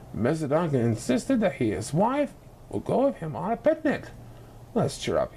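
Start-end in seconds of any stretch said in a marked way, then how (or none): 4.7-5.4 low, gentle coaxing; a father trying to lift spirits; father's voice. A narrator's reading. Mr Duncan urging his grieving wife to cheer up. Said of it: "he said".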